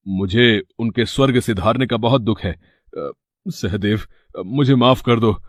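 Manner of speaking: low, soft, hesitant apology; mildly sorrowful, halting plea to a younger brother; दुखी पछतावा. Acted. Brother feigns grief and remorse asking forgiveness. (दबी, दुखी आवाज़ में माफ़ी)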